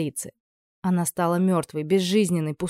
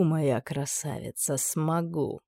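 quieter, slow, gloating threat; quiet, taunting villain; soft menacing promise; 6 dB quieter, much slower than usual. Acted. Horn threatens the girl.

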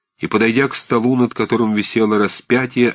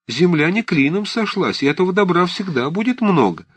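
put-on higher fussing old woman; fretting old aunt; 7 semitones higher than usual. A narrator's reading. Old aunt arguing with Liza about her love. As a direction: fuss and lament about the old man.

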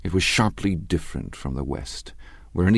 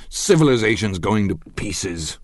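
blurted, a touch louder and higher; violent outburst; 4 semitones higher, 4 dB louder than usual. Acted. Tom breaking into the dinner talk, heated outburst. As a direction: burst out with it, heated but held. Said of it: "broke out Tom violently".

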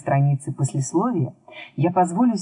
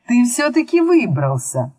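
raised, teasing derision; mocking; 7 semitones higher, 3 dB louder than usual. A narrator's reading. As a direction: taunt in a high voice. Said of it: "насмешливо произнёс волшебник".

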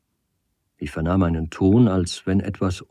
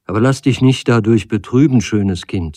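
raised, louder voice of reassurance; hearty consoling; 3 semitones higher, 7 dB louder than usual. A narrator's reading. Stranger tells the girl not to be saddened, heartily consoling. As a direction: cheer her up with energy.

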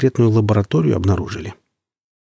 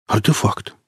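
exhaled; slower than usual. Acted. Hook breathes out the word in awe. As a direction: let «Артефакт» out on a breath. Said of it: "выдохнул Хук".

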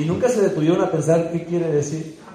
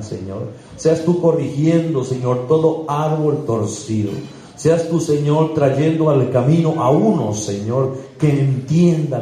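oración ferviente con invocaciones repetidas. Real, not acted. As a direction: ora con fervor ante la congregación. Leads congregation in prayer. (el pastor guía la oración de los hermanos, con fervor)

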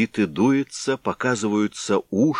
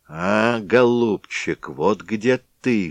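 cry out; slower than usual. Acted. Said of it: "вскрикнул дед".

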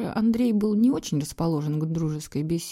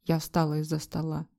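ordinary delivery

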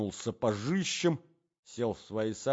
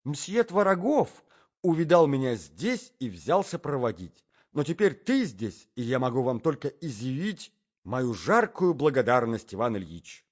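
effusive society lady, a little raised; 4 dB louder than usual. Acted. Lady thanks Tvorogov in front of her husband, effusive. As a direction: gush thanks with social polish.

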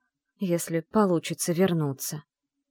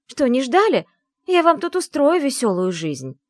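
much higher, louder mocking threat; loud taunt; 8 semitones higher, 7 dB louder than usual. A narrator's reading. Heroine taunts the household, loud mocking threat. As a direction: taunt them loudly. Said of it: "И опять громко".

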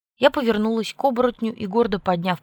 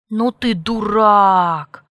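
slow, loud exasperated shout; 10 dB louder, much slower than usual. A narrator's reading. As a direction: yell it with exasperation. Exasperated outburst.

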